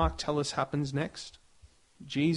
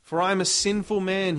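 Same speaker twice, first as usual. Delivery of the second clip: higher, louder cry of despair; a prophet crying out he is doomed; 4 semitones higher, 4 dB louder than usual. Acted. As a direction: wail that all is lost. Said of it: "another translation has".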